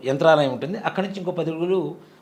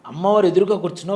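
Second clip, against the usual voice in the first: ordinary delivery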